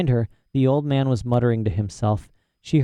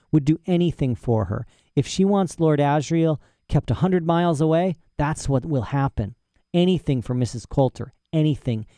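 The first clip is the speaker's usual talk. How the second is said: put-on eccentric old professor; 3 semitones higher than usual. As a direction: play a proud, rambling old professor. Professor gossips about Coulter.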